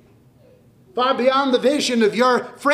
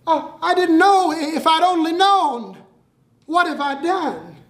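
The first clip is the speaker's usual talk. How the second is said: stunned dismay; 7 semitones higher than usual. Acted. Boy learns it was the governor.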